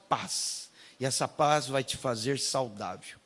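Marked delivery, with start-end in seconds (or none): 0.1-0.7 breathy whispered climax. Acted.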